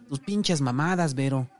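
high-pitched rant, building in volume; angry shouting. A narrator's reading. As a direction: yell at your wife, utterly fed up. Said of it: "Volvió a resoplar y gritó".

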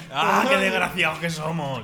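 hammed-up crying shout, slow; mock wail. Friends joking about bad luck, hammed-up wailing shout. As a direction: wail it like a fake lament.

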